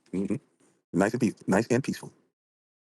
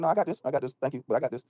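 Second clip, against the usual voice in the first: mock woman; 5 semitones higher than usual. Voicing woman at panel.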